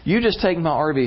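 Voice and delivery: mildly urgent retold insistence; insistent friend. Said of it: "who insisted when it was his vacation time".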